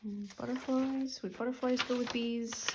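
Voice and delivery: talking between sips of tea; sipping hot tea. Real, not acted. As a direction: speak with a mouthful of hot tea. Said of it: "Sorry for the slurping".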